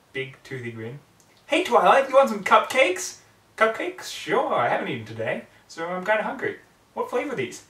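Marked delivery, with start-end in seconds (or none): 1.5-3.2 high, loud, bubbly pony voice; Pinkie Pie voice. Acted. Pinkie offering Twilight cupcakes, high and loud. 3.6-7.7 put-on higher, louder young pony voice; a hungry pony, a bit higher and brighter-toned; Twilight's voice. Twilight answering Pinkie about cupcakes, higher pitch.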